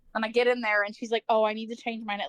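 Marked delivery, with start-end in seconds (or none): 1.3-2.3 put-on, very serious, dead-serious tone. Retelling what she said on arrival, imitating the most serious tone. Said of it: "with the most serious tone".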